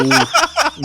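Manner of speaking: high, drawn-out impressed ooh. Real, not acted. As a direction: react like you caught a clever move. Reacting to a cheeky save.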